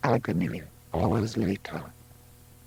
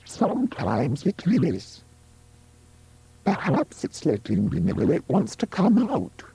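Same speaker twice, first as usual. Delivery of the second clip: put-on higher-pitched young mother-to-be in dialogue; a higher character voice for the pregnant woman; lightly voiced Juno; 6 semitones higher than usual. Pregnant woman answering her friends, lightly voiced.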